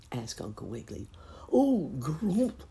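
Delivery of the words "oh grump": put-on high croaky frog-boy voice; frog croak. A narrator's reading. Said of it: "croaked Billy".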